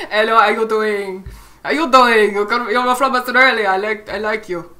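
hammed-up Australian greeting; playful Australian accent. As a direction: put on a playful Aussie accent.

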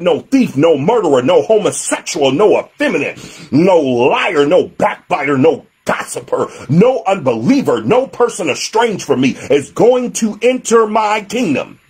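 measured list, each item set apart; emphatic declaration. Acted. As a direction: hand it down as God's decree. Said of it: "has emphatically stated".

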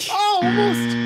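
high loud cry of almost; excited shout. Real, not acted. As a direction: yell out the near miss. Near miss, shouted. (아쉬운 외침)

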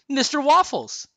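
high, loud amused exclamation; a touch of mirth, pitched high; chuckling. A narrator's reading. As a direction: announce a silly name with relish. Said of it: "said with a chuckle".

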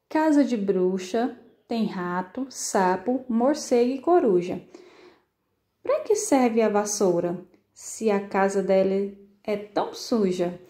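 put-on reciting a children's poem with a light sing-song; poem recital. Shown as a demonstration. Teacher reads a witch poem to the class, light recital. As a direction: read the little poem out to the kids. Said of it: "Olha só esse poeminha".

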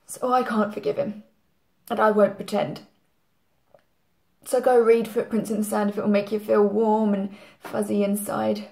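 bitter anger. Acted. Bitter outburst at mourners.

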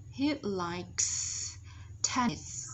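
"He likes tennis" with each final S audible; final S sounds. Shown as a demonstration. Teacher demonstrating for students, "He likes tennis" with clear S endings. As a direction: model "He likes tennis" in separated words, closing on S. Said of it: "S ending sound".

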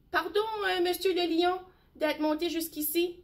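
a tiny mouse daring to speak up; timid little mouse. Acted.

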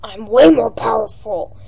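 lightly low villain voice, partly whispered; a kid's mild attempt at a gruff king; Bowser voice. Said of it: "I'm gonna have to do a really low voice".

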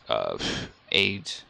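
ordinary delivery

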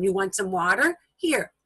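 put-on gently offering water, child-directed; like handing a toddler a drink; natural offering to child. Shown as a demonstration. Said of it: "what your child might hear around him".

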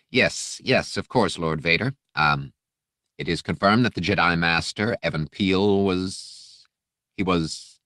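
a frightened underling stammering; nervous aide. Acted. Aide stammering his report to Vader, nervous. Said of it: "Renan jumped as if fire wasps had stung him".

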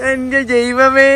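very high, drawn-out slow gasp of wonder; mock amazement. Real, not acted. Exclaiming at child.

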